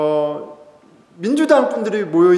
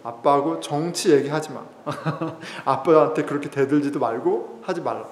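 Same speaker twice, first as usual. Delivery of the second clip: stern cousin. Retold or imitated. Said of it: "굉장히 엄하게 저한테 얘기했던".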